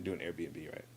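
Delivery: normal talking voice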